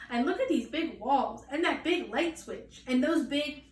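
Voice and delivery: put-on rising, breathless child wonder; a child gaping at a giant kitchen; excited gushing. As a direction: pile on every big thing in awe.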